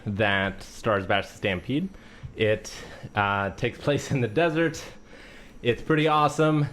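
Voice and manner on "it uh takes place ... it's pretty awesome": winded, short of breath. Real, not acted. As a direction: talk while still catching your breath. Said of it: "I'm out of breath".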